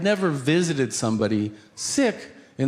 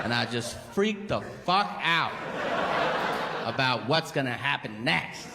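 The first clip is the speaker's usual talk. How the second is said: stoner guy; 4 semitones higher, 4 dB quieter than usual. Retold or imitated. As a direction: float it out like a blissed-out burnout. Stoner guy describing crack high.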